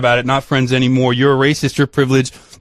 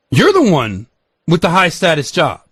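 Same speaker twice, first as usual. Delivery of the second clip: indignant telling-off, building to higher pitch; heated retold argument; 5 semitones higher than usual. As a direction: lay into your friend, voice climbing. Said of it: "I got into a fight with him".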